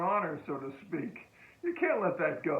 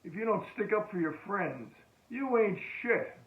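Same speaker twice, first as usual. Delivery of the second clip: a bit higher, slowing down on the last words; mild tough-guy taunt; 4 semitones higher than usual. Retold or imitated. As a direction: sneer it like a cocky marine. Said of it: "He goes".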